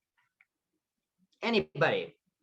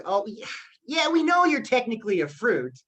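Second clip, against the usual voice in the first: higher-pitched mock exasperation; eye-rolling exasperation; 4 semitones higher than usual. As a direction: say it as an orange rolling its eyes. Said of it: "orange just rolls his eyes".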